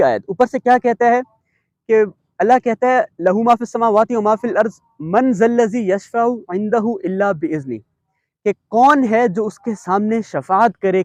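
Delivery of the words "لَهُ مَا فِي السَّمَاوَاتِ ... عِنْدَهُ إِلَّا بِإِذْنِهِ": Quranic recitation. Acted. Teacher recites the verse to students in tajweed style.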